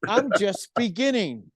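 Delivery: high laid-back hippie drawl; be the mellow old hippie, man. Retold or imitated. Old friend on phone, high mellow hippie voice. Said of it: "in his best hippie voice".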